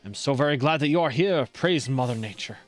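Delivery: put-on light French accent, formal and theatrical. Streamer reading an artistic rival's dialogue, light French accent. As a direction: voice the character with a hint of French. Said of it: "giving him a French accent".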